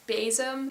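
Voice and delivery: bezem with the stress on "be"; stress on first syllable. Shown as a demonstration. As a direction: say bezem in Dutch, leaning on the opening syllable. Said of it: "has the stress on the be".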